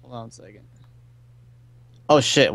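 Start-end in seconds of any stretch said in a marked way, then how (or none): 0.0-0.6 barely audible, far from the mic; really quiet. Real, not acted. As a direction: speak almost too quietly to hear. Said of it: "I can hardly hear you".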